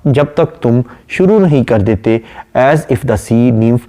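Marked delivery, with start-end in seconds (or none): 2.6-3.8 slow, measured reading of a poem line; poem recitation. Acted. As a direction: recite it slowly and deliberately. (धीमी, ठहरी हुई कविता-पाठ की आवाज़)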